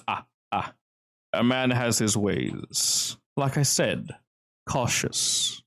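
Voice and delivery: coy, unhurried and cagey; smooth gentleman. Acted. Host dodges intruder's question, lightly smooth and unhurried. Game master plays smooth stranger.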